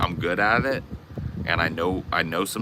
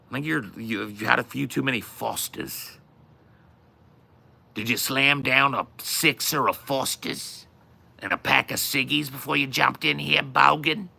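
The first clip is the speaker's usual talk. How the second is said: mock Australian accent; 5 semitones higher than usual.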